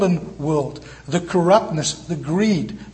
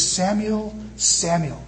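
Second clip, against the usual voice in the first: a slightly softer, gentle repeat of the name; tender calling; 4 dB quieter, slower than usual. Acted. God calling Samuel, a hint of gentle tenderness. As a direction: call his name with quiet affection. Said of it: "He repeats his name tenderly, affectionately".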